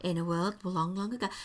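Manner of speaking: a hint of hushed tale-telling; storyteller voice. Host playfully trying out her storyteller voice, mock storyteller. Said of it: "can I put on my storyteller voice".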